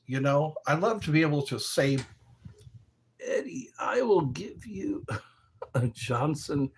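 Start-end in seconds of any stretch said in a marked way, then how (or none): 3.2-6.7 a mischievous whisper to Eddie; whispered joke. Pretend. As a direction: whisper the crude line like a secret. Mock cussing line to Eddie.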